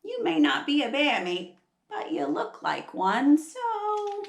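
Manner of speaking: lightly voiced Aussie kangaroo; a hint of a cheeky storybook kangaroo; kangaroo character. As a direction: toss it back, lifting high on the last word. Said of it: "The kangaroo says".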